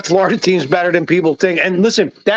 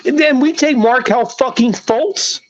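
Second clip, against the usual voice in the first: pitched-up, exasperated sports rant at the front office; heated rant; 2 semitones higher than usual. Real, not acted. Fan ranting at the team's front office, heated and exasperated. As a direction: vent at the Sixers like a fed-up fan. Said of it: "Sorry, that was my rant".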